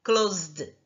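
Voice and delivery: closed. as one syllable, klozd, ending in D; final D sound. Shown as a demonstration. Teacher modelling for students: closed. as one syllable. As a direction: say closed. with no vowel before the D. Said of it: "E do the".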